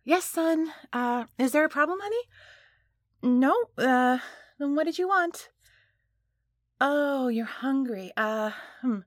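forced-casual parent calling through a door; hesitant, everyday parent voice; covering up. Acted. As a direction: sound normal while hiding something. Covering up to son outside.

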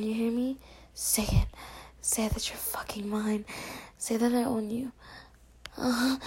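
hushed breathy roleplay whisper; intimate whisper. Acted. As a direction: whisper close and intimate to a partner.

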